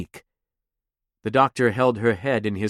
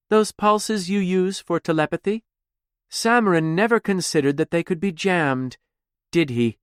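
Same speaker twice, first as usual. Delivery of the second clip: lightly voiced smug taunt, raised pitch; taunting Dax; 5 semitones higher than usual. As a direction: needle her with cool mock curiosity.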